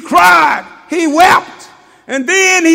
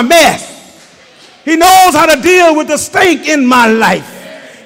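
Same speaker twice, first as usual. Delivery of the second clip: preaching at full force. Real, not acted. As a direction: hammer it home to the church. Preaching about death and life.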